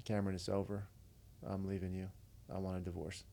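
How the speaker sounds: retold blunt announcement, no emphasis; imitating a matter-of-fact breakup. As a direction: deliver it evenly, as settled fact. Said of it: "kinda matter-of-factly".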